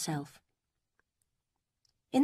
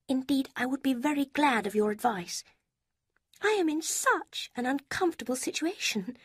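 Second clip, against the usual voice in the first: a higher, lighter voice for Lucy; Lucy, higher voiced; 8 semitones higher than usual. A narrator's reading. Lucy quizzing Eleanor about Mrs Ferrars, higher voice. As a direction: lift the pitch for the young woman Lucy.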